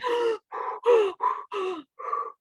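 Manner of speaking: a big, high audible gasp of air. Retold or imitated. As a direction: suck in a long breath at once. Taking the reminded deep breath.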